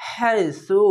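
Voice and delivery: "হাইসু" with a softly hissed স. Shown as a demonstration. Teacher modelling the letter sa, soft স in "হাইসু". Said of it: "এই সা উচ্চারণটি নরম করে হবে".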